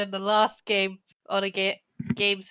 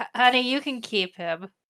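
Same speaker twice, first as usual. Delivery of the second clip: normal talking voice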